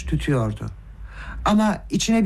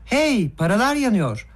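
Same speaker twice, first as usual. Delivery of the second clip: calling out; 5 semitones higher than usual. A narrator's reading. Nastasya calls to Gavrila as the money burns, calling out. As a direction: call over to him, pitched up. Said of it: "seslendi ona".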